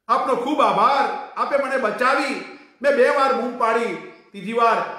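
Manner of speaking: put-on a rescued girl pouring out thanks; grateful girl.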